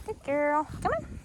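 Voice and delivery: very high come on to the dog; puppy praise. Real, not acted. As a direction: coax her along eagerly.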